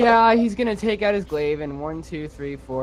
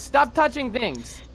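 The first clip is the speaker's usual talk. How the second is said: slow, higher-pitched order; exasperated scolding; 4 semitones higher, slower than usual. Acted. Companion tells Eamon to stop touching, exasperated scolding. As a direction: space it out slowly as a fed-up order.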